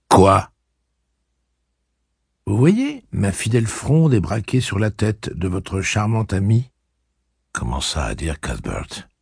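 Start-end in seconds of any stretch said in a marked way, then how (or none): 0.1-0.5 surprise brusque. Acted. Reynolds surpris. 2.5-6.7 jeune Cuthbert narquois. Acted. Cuthbert ironique.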